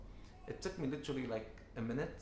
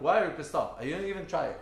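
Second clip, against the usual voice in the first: retold angry outburst; 4 semitones higher, 6 dB louder, faster than usual. Angry father confronting son.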